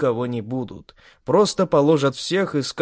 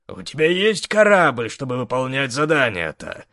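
sly teasing question; mocking. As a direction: needle her with a smirk. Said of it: "С ехидцей посмотрел". (с ехидцей)

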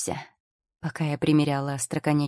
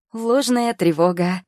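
higher, louder, slow cheerful call; joyful announcement; 5 semitones higher, 6 dB louder, slower than usual. A narrator's reading. Girl cheerfully announcing to the healers. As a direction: announce it with glee. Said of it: "радостно объявила она".

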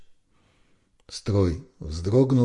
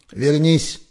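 higher, louder yell; the lieutenant yelling after Yaki to come back; shouted after him; 8 semitones higher, 6 dB louder than usual. A narrator's reading. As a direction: call out after someone walking away. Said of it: "крикнул вслед взводный".

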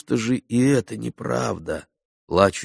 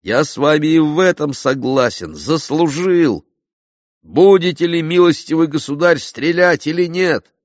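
elated; 7 semitones higher, 6 dB louder than usual. A narrator's reading. Elated hero addresses duellist.

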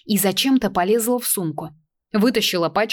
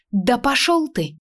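angry retort; 6 semitones higher, slower than usual. A narrator's reading. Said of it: "разозлилась девушка".

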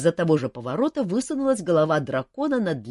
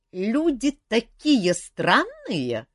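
very slow, high, fond; touched phantom; 9 semitones higher, 6 dB louder, much slower than usual. Acted. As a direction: marvel fondly at humans. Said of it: "с некоторым оттенком умиления".

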